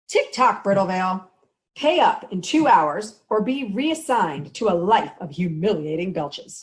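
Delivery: taunting evil mastermind; villain voice. Acted. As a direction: gloat over the deadline. Villain threatens town again.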